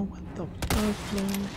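drawn-out high disbelief; slow high what the fuck, outraged. Real, not acted. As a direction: stretch it out, incredulous. Enemy surprises with crossbow.

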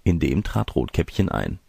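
plain reading voice

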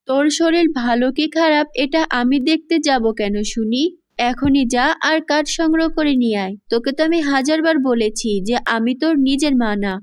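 understated storybook scolding; angry stepmother. Acted. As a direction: scold the child with a touch of anger. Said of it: "রেগে গিয়ে তাকে বলে".

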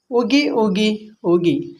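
slow, drawn-out soothing words; soothing hush. Acted. Oil lamp comforts her crying friend, slow and soothing. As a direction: gently hush a friend, taking it slowly. Consoling the crying incense stick.

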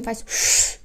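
ordinary talk, nothing marked

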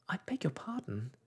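whispered humble apology; meek and small, barely voiced; humbly. A narrator's reading. Alice apologising to the mouse in a humble whisper. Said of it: "said Alice very humbly".

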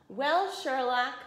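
slow, sarcastic boom; slow booming sarcasm; booming farmer. Acted. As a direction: boom it out slowly, mocking. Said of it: "boomed the farmer".

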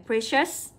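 "precious" pronounced with sh for c. Shown as a demonstration. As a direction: make the sh in "precious" clear. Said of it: "âm này là âm sh". (đọc chữ c trong "precious" là sh)

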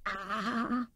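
drawn-out "ah" sigh; contented sigh. A narrator's reading. Rat looks into the cosy kitchen, sighing. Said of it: "he sighed".

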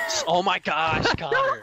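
frustrated yell at teammate; raging gamer. Real, not acted. Getting hit in game.

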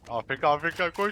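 loud, rising hurry-up call; urgent shout. Real, not acted. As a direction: push them to run now. Urging teammate to rush.

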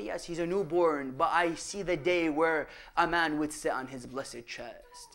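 low, softened, sorrowful foretelling; grave retold answer. The Prophet foretelling his grandson's death, low hushed retelling. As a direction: drop low and quiet, breaking grave news.

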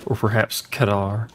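"kedar" with a hard k; mock pronunciation. Shown as a demonstration. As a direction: tease the word as "kedar", hard k. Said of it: "pronounce the word cedar again".

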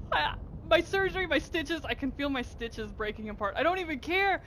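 teary, excited gush; half-crying with happiness; emotional joy. Real, not acted. Gamer near tears after surgery over a rare mount.

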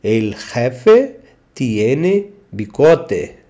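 slow, clear demo of the sentence; teacher modelling slowly; slow model sentence. Shown as a demonstration. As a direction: say it slowly for learners to repeat. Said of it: "slow model sentence".

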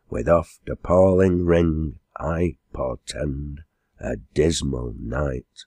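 slow, measured poem reading; solemn epigraph in verse; verse recitation. Acted. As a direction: recite it gravely, drawing out each line.

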